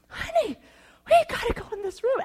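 high, fast forced-sweet urging; strained sweet plea. Retold or imitated. Embarrassed wife urging husband out, high and strained. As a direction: nudge him away through a tight smile. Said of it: "And I'm just like".

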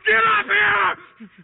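slow, high, loud shout; screaming. Retold or imitated. Captain screaming down for his crew to come look, drawn-out high shout. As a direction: bellow it out, every word stretched. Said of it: "I'm screaming down below".

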